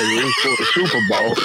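high, squealing laugh breaking into the words; can barely get the excuse out for laughing; laughing through the quote. Retold or imitated. Quoting the hire's cocaine excuse to friends, cracking up.

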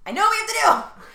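loud, high, hammed-up TV outburst; mock dramatic exclamation. Podcaster mimics an actor's big realization after a clap, in a hammed-up high shout. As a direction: shout it like an overacted eureka. Acting out TV character's sudden realization.

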